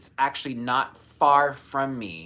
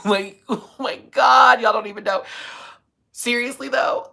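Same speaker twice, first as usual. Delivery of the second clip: excited; 11 semitones higher, 9 dB louder than usual. Real, not acted. Laughing excited outburst.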